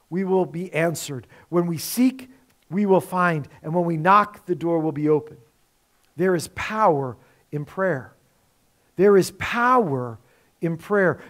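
low, soft, measured assurance; solemn reassurance. Real, not acted. Softened assurance closing the point.

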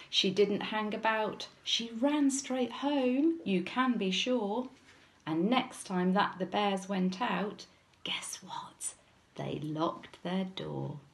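measured storybook reading; lilting narration for small children; children's story narration. A narrator's reading. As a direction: tell it as a picture-book story. Reads story aloud to children.

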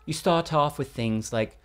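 careful Received Pronunciation; southern British RP, correct and formal; RP English accent. Shown as a demonstration. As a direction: lecture in proper RP English. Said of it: "of that, that R P?".

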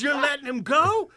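high loud yell, cracking with laughter; mock screaming. Pat screaming at the cop, high and loud. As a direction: shriek it in outraged disbelief. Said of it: "He's screaming".

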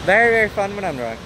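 playful hype. Real, not acted. Hyped self-description.

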